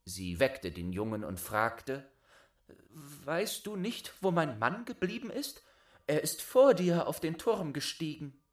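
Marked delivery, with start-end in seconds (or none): 2.9-8.4 higher, anxious questioning voice; worried wife. Acted. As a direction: ask him, growing worried.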